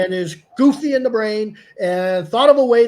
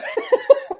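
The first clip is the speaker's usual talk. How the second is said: laughing. Real, not acted. Laughing at the caller story.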